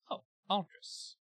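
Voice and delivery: high, slow, drawn-out sigh of the name; creature sighing name. Acted. Alien entity greets Aldris, high and slow. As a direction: linger on it fondly and eerily. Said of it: "It says".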